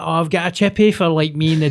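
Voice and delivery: put-on old Glaswegian.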